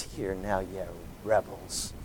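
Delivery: low, soft, calm rebuke; calm quiet. Shown as a demonstration. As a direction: say it quietly, almost gently. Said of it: "I don't believe he said it in a very calm voice".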